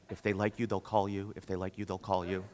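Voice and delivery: low, soft repeated brush-off, fading away; imitated brush-off. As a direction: imitate an escort, quietly dismissive. Escort brushing him off while walking out.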